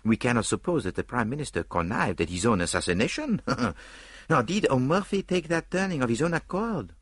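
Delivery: dismissive Belgian detective, pondering; detective weighing the traitor question; Poirot's voice. Acted. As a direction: wave it off, then reason aloud.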